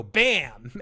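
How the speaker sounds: punchy mock "Bam!"; TV chef catchphrase. Dragon spices the meat, showy chef "Bam". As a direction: toss it out like throwing spice. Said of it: "throw some spice and go".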